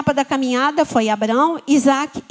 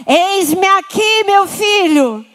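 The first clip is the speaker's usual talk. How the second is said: slow, louder, higher divine reply; heaven's answer; 4 semitones higher, 4 dB louder, much slower than usual. Acted. Heaven answering the believer, slow and tender. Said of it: "Resposta do céu".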